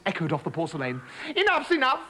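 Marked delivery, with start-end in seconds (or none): 1.4-2.0 frog pleading. Acted. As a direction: call it up the bowl.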